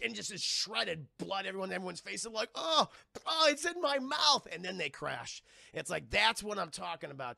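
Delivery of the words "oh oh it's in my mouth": disgusted. Retold or imitated. Blood splatter disgust.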